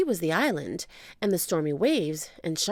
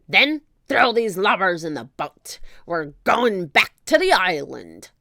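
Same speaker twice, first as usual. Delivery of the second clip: louder gruff pirate; captain's orders; 7 dB louder than usual. Acted. Captain orders his men, loud. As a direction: command the crew.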